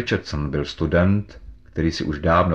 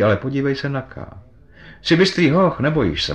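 lightly voiced worldly colleague, persuasive; 3 semitones higher than usual. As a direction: lightly act a confident friend talking a novice round. McFarlane lectures his frightened colleague. (živě přesvědčující starší kolega)

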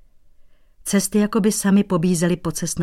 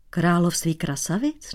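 puzzled echo. Acted. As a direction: repeat it baffled. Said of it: "Nechápal cizinec". (nechápavě, stoupavě „Království krasavic?“)

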